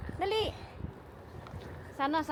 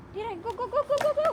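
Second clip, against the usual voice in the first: cheering; 9 semitones higher than usual. Real, not acted. Mom cheers kids on scooters.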